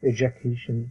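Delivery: "এডুকেশন" the American way, "e-juh-kay-shn"; American-style "e-juh-KAY-shn"; American English pronunciation. Shown as a demonstration. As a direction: model an American "এডুকেশন" with a reduced middle vowel. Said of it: "American ইংলিশে এটার উচ্চারণ হলো".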